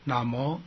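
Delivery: 那么 joined as one word, na-mo; the spelled sounds put together as 那么; blended pronunciation. Shown as a demonstration. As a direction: blend the two syllables into 那么. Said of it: "就这样哈".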